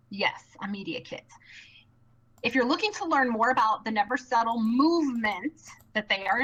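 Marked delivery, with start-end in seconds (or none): 0.1-1.2 whispered aside to the viewers; hushed, as if letting them in on it; playful whisper. Pretend. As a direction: drop to a soft, confiding whisper. Mock-confiding aside to viewers.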